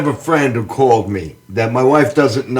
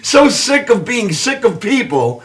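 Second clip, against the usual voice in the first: laughing; 6 semitones higher than usual. Real, not acted.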